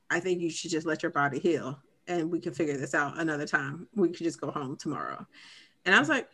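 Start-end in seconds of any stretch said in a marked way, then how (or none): 0.1-5.2 calm husband. Retold or imitated. Husband gently advises his tired wife.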